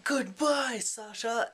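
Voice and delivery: high, loud goodbye called out; mock farewell shout. Fyedka calls a loud mock goodbye to Sasha. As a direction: fling the goodbye at him. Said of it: "Fyedka's like".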